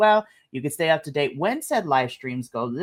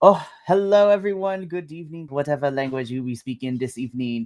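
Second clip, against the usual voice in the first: put-on French accent; 3 semitones lower than usual. Host greeting the audience at the start of a review show: put-on french accent. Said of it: "I don't know why I decided to go with a French accent".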